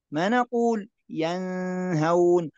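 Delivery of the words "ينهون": ينهون with a merged nasal nun; wrong reading. Shown as a demonstration. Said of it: "هذا خطأ". (نطق خاطئ)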